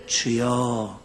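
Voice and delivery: low, soft husky call; a low husky prayer cry. Shown as a demonstration. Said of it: "내가 허스키로 한다고".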